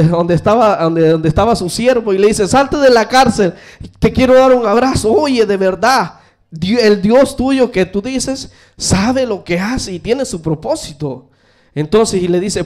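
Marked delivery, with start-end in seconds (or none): 2.5-11.3 joyful king. Acted. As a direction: throw the door open with delight. Relieved king frees servant.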